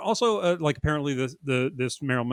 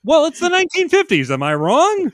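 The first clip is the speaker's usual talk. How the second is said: loud; 10 dB louder than usual. Real, not acted. Playful provocative banter.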